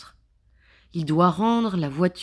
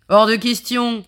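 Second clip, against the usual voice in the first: firm refusal; 4 semitones higher, 7 dB louder than usual. Acted. Ross refuses.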